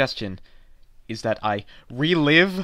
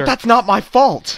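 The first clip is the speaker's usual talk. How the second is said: frustrated protest; 7 semitones higher, 5 dB louder than usual. Acted. Frustrated customer argues.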